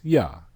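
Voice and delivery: Ya said alone as a short open syllable; syllable sounded out. Shown as a demonstration. Teacher building the word for the class, one syllable sounded out. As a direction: give Ya as one clean syllable. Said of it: "How is it pronounced?".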